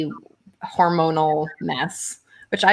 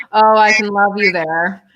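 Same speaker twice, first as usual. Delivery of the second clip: flippant and breezy, louder; 5 dB louder than usual. Shown as a demonstration. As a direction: toss it off as if it doesn't matter. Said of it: "said in this way that's flippant".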